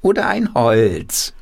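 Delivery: high, squawky hand-puppet voice; quacking puppet voice. Acted. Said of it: "mit verstellter Stimme quakt er los".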